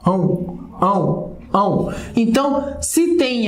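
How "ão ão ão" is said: nasal "ão" isolated for students; drawn-out nasal sound. Shown as a demonstration. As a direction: repeat "ão" as a clear nasal diphthong. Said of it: "Tem um U aí".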